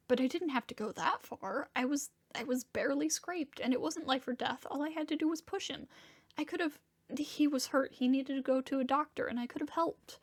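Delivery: mild anguish, urgent self-blame; guilt-ridden protest. Acted. Arguing that he could have helped the hurt man, guilt-ridden. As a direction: argue against the comfort, upset with yourself.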